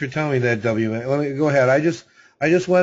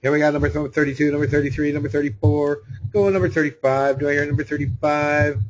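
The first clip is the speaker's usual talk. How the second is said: rapid auction chant, lightly voiced; auctioneer. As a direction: call the numbers like an auctioneer. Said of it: "I feel like an auctioneer".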